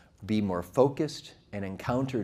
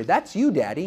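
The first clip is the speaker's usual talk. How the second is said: lightly voiced small child, higher and louder; 5 semitones higher, 4 dB louder than usual. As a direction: pipe up like a little kid. Voices his small child answering.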